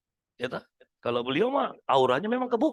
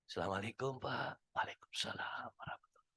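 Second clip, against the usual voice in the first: much softer, drained of energy; limp, listless greeting; 7 semitones lower, 17 dB quieter than usual. Retold or imitated. Imitating a coworker who is always weak and limp, soft and drained. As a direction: mumble the greeting as if exhausted. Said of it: "lemes terus".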